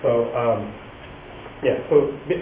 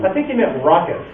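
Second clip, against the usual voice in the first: normal talking voice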